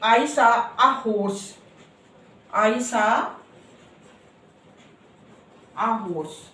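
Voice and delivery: "I saw a horse" dictated slowly; slow example sentence. Shown as a demonstration. Teacher dictating the example sentence slowly to class. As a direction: read it out word by word. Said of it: "देखो".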